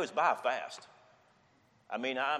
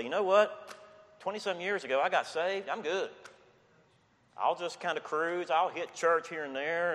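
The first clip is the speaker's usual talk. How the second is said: a lightly higher, breezy take on a lazy churchgoer; complacent believer; 5 semitones higher than usual. Pretend. Preacher mocking a coasting Christian, lightly raised breezy voice. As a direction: play it easy and self-satisfied, only a touch. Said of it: "I can't sit back on cruise control and say".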